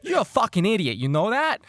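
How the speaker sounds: loud, high mock-furious insult; exasperated shouting. Crewman insults friend mid-argument, exasperated shouting. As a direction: cut them off with a yell. Acted quarrel, cuts friend off.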